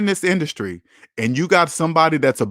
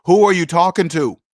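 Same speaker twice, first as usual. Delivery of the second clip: quick, level comeback to a rude manager; firm challenge; 3 semitones higher, 3 dB louder than usual. Retold or imitated. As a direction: toss the question back at them straight. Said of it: "You're gonna turn to 'em and say".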